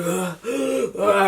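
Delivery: breath-heavy mock groans; imitated moaning. Friend found sick on the floor, imitated groans. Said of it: "She was going".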